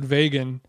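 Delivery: "vegan" as VAY-gun; old-fashioned "vegan", rhyming with Fagan; grandma's pronunciation. Retold or imitated. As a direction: say "vegan" with a first syllable like vay. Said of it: "my grandma used to pronounce it".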